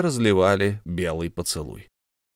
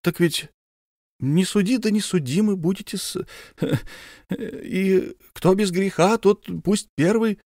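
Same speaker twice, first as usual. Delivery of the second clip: chuckling scripture quote; 10 semitones higher than usual. Acted. Officer quotes the Bible to the count, high with a chuckle. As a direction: dodge with a pious joke.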